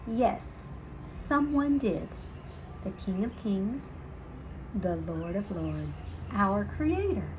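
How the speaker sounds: a hint of a preaching vicar. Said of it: "with the voice of a vicar".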